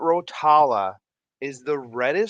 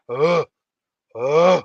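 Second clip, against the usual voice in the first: moose grunt imitation; 9 dB louder than usual. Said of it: "like, grunt".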